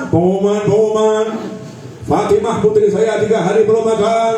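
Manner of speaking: lightly voiced public announcer, drawn on one level tone; mock announcement. Preacher showing what the Prophet never did, mock announcement. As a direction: pretend to proclaim it to everyone. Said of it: "Nabi nggak pengumuman".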